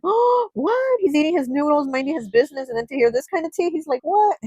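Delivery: squeaky high, stunned ghost voice; cartoon ghost caught mid-noodle, high and startled; shocked ghost. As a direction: play the startled ghost, voice shooting way up.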